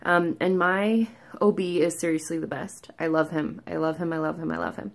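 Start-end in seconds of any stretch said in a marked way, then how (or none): 3.0-4.9 fading fond repetition. Real, not acted. Patient gushing about her OB, fading fond repeats. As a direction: trail off lovingly.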